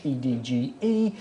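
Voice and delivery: letters spelled one by one. Shown as a demonstration. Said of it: "type the word EDGE".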